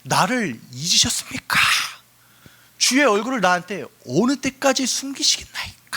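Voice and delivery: acted cry of lament; crying out in complaint. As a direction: call out accusingly, drawing out the final question. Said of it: "소리 지르는 장면".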